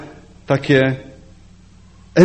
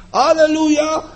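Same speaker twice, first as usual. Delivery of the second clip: weary hallelujah; 9 semitones higher than usual. Retold or imitated. Preacher acting a believer's bad day, dejected. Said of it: "a drugi".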